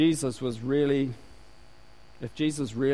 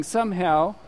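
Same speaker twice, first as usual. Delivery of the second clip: mock superior Christian; 2 semitones higher than usual. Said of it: "because you're saying".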